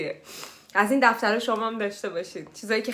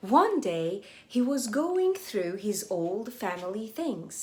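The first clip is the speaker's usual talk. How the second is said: slow reading; much slower than usual. Shown as a demonstration. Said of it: "slow English read-aloud for learners".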